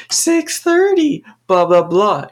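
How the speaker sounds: very high, slow sing-song chant; droning class reply. Retold or imitated. Whole class answering the teacher in a high drawn-out chant. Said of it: "the whole class would reply".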